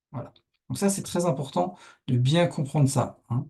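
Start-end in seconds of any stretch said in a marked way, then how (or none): none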